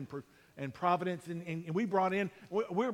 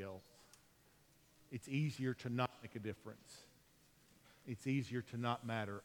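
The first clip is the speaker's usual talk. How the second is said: softer, intimate pleading with the congregation; quiet earnest appeal; 8 semitones lower, 8 dB quieter than usual. Real, not acted. Pastor to congregation about obedience, softer and earnest. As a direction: drop it down and speak straight to their hearts.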